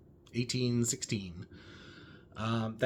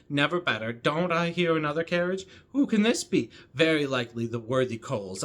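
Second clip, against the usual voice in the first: lightly voiced chattering Miss Bates; Miss Bates reading. Booktuber reads Miss Bates's rambling greetings, lightly voiced chatter. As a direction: rattle on as a breathless, gushing old spinster, a hint of a character voice. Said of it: "one long paragraph of Missus Bates speaking".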